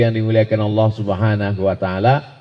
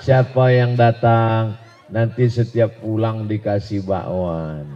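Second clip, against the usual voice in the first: gentle. Acted. Preacher at Masjid Al-Bakwan inviting worshippers, gentle. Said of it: "lembut aja".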